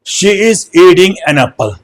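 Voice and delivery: "she is eating an apple" drawn out word by word; slow example. Shown as a demonstration. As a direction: lay out each word slowly for the class. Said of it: "जैसे". ("she is eating an apple" धीरे धीरे, शब्द दर शब्द)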